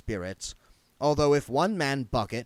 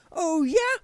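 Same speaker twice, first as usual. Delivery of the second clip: much higher, louder taunting Oh, yeah; mocking ghost challenge; 7 dB louder than usual. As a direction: push the challenge harder.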